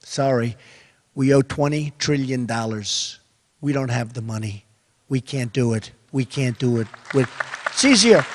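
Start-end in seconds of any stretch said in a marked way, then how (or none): 0.0-6.9 softer, calm apologetic no; mild sorry-folks refusal; polite refusal. Pretend. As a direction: decline nicely, no heat. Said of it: "Now I just say".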